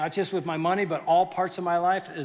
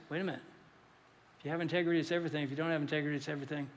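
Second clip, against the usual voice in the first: quiet realization; 3 semitones lower, 8 dB quieter, much faster than usual. Retold or imitated. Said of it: "then he goes".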